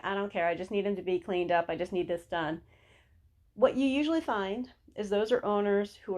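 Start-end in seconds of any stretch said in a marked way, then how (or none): 0.0-2.6 impatient owner. Retold or imitated. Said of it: "the owners were like".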